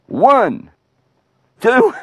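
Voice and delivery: high, spaced-out knockout count; referee's count. Acted. Referee's count over fallen giant.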